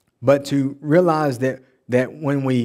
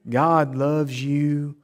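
slow, drawn-out mock reassurance; syrupy mimicry; much slower than usual. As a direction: croon it slowly, imitating feel-good preachers. Mimics preaching only love.

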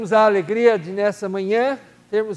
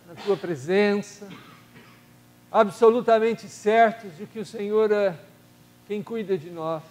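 steady, devout prayer voice addressing God; earnest prayer. Acted. Leading the church in prayer for the sick, earnest prayer voice. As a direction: pray aloud for the congregation, unhurried and solemn.

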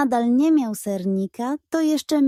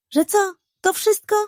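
higher, disbelieving pug voice; indignant pug; 9 semitones higher, 3 dB louder than usual. A narrator's reading. Pug protesting the cat's trick, higher and indignant. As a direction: scoff like you've been cheated.

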